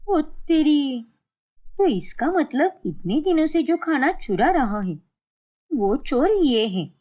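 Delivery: catching the thief red-handed, stunned; amazed discovery. Acted. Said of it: "देखकर वो हैरान रह जाती है".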